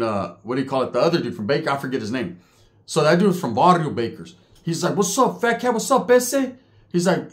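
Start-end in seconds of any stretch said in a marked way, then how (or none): 5.0-6.5 high-pitched imitated hail; calling out. Bakersfield inmate hails Fat Cat from his cell, calling out. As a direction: call over to another cell. Calls to neighbour from next cell.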